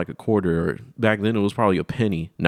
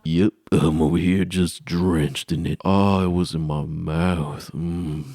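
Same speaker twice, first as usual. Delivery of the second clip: put-on slow kid brag; 3 semitones lower, slower than usual. Kid self bragging.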